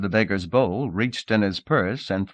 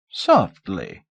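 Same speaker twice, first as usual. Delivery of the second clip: cautioning. Acted. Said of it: "cautioned the Zendonian".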